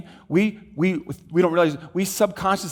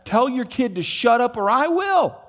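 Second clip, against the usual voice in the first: mock rude man; 8 semitones higher than usual. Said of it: "this guy says".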